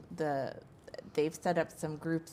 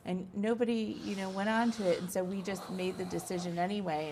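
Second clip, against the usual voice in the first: higher-pitched mock excuse, easing back down; imitating survey makers' excuse; 3 semitones higher than usual. Farmer quoting survey makers who skipped the follow-up, higher mock excuse. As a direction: quote their excuse in a lightly mocking higher voice. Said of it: "They'll say".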